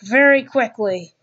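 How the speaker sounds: hockey play-by-play voice; NHL commentator. Pretend. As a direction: call the game like a TV announcer. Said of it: "do my best impression of an N H L commentator".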